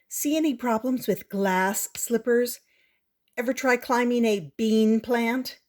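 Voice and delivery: lightly voiced know-it-all girl; a hint of a sneering schoolgirl; scornful girl. Prudence mocks fairy tales.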